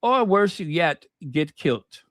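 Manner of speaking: put-on amateur Scottish accent for a punchline; badly faked Scottish lilt. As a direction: deliver the pun in poor Scottish. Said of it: "Scottish accent".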